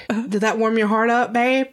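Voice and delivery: teasing quote. Retold or imitated. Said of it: "I was like".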